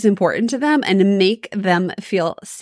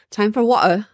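put-on British accent; 3 semitones higher than usual. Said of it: "British coach".

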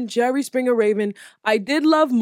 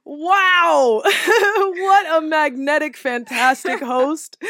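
excited exclamation; 5 semitones higher, 4 dB louder, slower than usual. Real, not acted. Excited about the host.

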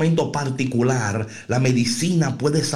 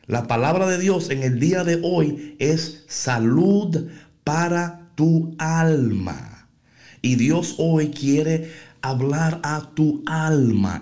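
slowed down and weighty, each word leaned on; slow emphatic preaching; 2 semitones higher, slower than usual. Acted. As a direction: drive the point home slowly. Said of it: "¿Me escuchaste bien?". (predicación lenta y enfática, cada palabra marcada)

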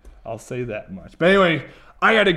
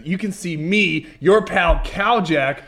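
banging the desk; 2 semitones higher, 3 dB louder than usual. Real, not acted. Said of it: "Stop hitting the desk".

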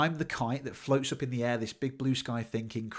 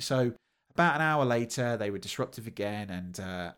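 ordinary talk

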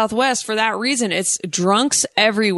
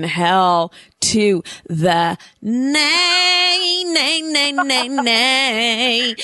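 sassy refusal; 3 semitones higher, much slower than usual. Pretend. Emphatic refusal chant.

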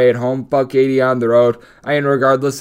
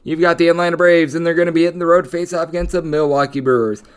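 ordinary talk

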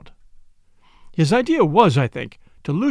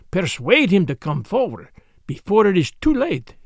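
solemn detective with emphatic, higher-lifted phrases; Poirot, grave and pressing; 4 semitones higher than usual. Acted. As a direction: press her earnestly to give him up.

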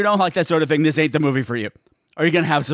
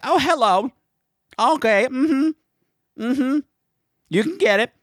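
hammed-up flirty purr, pitched up; 5 semitones higher than usual. Reviewer swooning over the hot farmer dad, flirty. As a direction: coo it like you're smitten.

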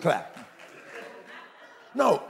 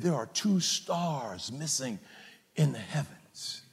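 soft, slow, solemn delivery; mock-grave romancing; 2 semitones lower, 7 dB quieter, slower than usual. Husband telling his wife of missing stars, hushed mock gravity. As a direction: break the bad news slowly and softly.

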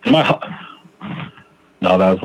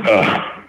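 regretful groan. Acted. Speaker replaying his cool-off after yelling, mild regretful groan. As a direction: let out a mild, acted "ugh". Acted regret while cooling off.

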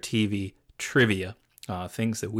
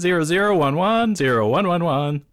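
computer voice reciting binary code; robot saying binary; 5 semitones higher, 6 dB louder than usual. Pretend. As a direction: chant the zeros and ones like a machine. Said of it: "Did you really spell something out with that?".

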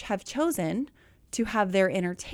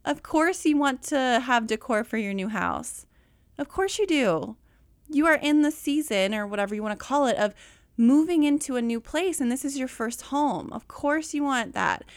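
higher, eager reassurance; reassuring excitement; 3 semitones higher than usual. Retold or imitated. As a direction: cheer her on warmly. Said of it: "And I'm like".

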